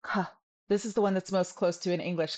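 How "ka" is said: light puff on "ka"; just-right K. Shown as a demonstration. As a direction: say "ka" like an English K. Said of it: "just right".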